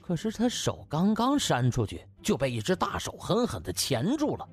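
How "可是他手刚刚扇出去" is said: plain reading voice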